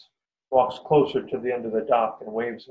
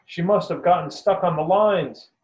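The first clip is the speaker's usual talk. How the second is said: called out high and louder; urgent raised call from the ranger; ranger shouts; 7 semitones higher, 4 dB louder than usual. A narrator's reading. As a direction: shout it across the dock to the boaters. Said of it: "The ranger shouts".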